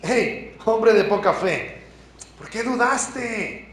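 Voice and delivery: slow, firm rebuke without anger; a mild firm wake-up call; Jesus firmly calling Pedro out, slow and steady; firm call to attention. Retold or imitated. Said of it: "un llamado de atención firme".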